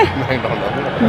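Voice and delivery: slow careful say. Pretend. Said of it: "McDonald में".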